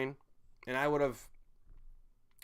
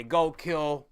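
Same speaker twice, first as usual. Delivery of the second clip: louder barked commands, hammering murder; mock president's order; 3 semitones higher, 6 dB louder than usual. Imitating the president ordering troops to kill, angry mock command. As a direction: order them off like a callous commander. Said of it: "the president has the right nowadays to say".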